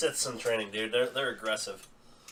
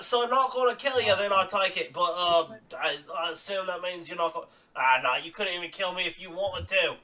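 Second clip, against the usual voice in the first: cocky villain; 5 semitones higher than usual. Acted. GM voices a cocky enemy.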